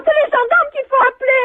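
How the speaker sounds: outraged shout. Real, not acted. Victim outraged over dog.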